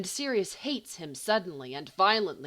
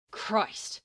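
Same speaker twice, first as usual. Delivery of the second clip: slightly awed; 2 semitones higher than usual. A narrator's reading. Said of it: "slightly awed".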